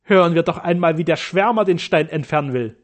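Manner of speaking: loud, mocking sneer; scornful. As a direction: ridicule the stranger. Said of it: "schnarrte er voller Hohn".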